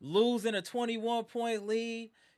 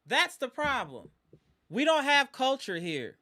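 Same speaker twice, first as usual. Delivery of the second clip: frustrated loud repeat; 6 semitones higher, 6 dB louder than usual. Real, not acted. Fan repeats his complaint.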